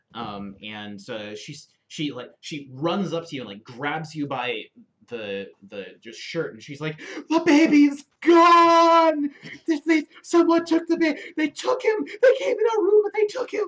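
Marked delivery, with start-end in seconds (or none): 7.2-13.6 very high, loud, distraught, panicked sobbing, stretched out. Game master voicing a woman who grabs a player, as a distressed, crying woman. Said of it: "She's crying".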